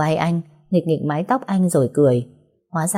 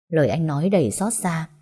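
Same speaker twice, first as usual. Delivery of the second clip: ordinary delivery, nothing marked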